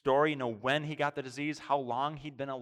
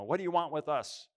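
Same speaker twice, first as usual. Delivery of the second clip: demon crying out; 5 semitones higher, 4 dB louder than usual. Retold or imitated. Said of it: "a man in the synagogue who was crying out".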